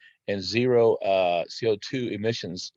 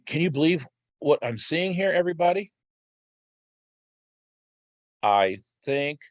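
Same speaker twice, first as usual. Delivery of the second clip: mock-suspicious big reveal; tongue in cheek. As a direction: play it like a conspiracy discovery. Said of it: "little tongue in cheek there".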